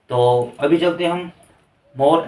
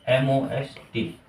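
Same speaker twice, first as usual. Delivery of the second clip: spelled out slowly; 2 semitones lower, 5 dB quieter, slower than usual. Shown as a demonstration. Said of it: "करेंगे most".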